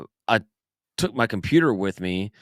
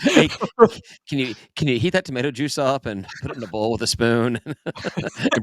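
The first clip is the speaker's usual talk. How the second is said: laughing; 5 semitones higher than usual. Acted. Laughing through a mock order.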